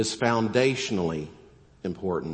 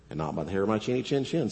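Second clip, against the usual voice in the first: fast, softer retort from the little pig; quick pig reply; 3 dB quieter, faster than usual. Acted. Little pig refuses the wolf, a fast, softer retort. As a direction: rattle off the pig's refusal quickly. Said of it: "said the little pig".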